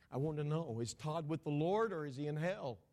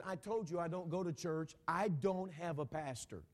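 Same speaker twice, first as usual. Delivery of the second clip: mildly irritated retort, stretched at the end; 3 semitones higher than usual. Retold or imitated. Father rebuffing a question about his pastor, mildly irritated. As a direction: retell a man's growing irritation. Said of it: "I had irritated the man".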